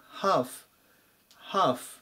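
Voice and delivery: ハーフ with no L sound; half with the L silent; Lを読まないハーフ. Shown as a demonstration. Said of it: "このLは読んでいません".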